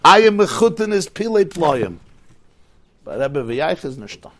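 lightly voiced coachman in awe; coachman's praise. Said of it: "Balagola gesagt".

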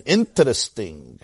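low, slow pondering reaction; dubious musing. Acted. Second, lower reaction to odd name.

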